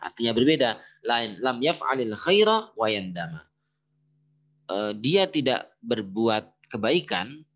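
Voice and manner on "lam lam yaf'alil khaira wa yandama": measured Arabic recitation. Shown as a demonstration. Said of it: "Tapi karena kita pakai wawu ma'iyah".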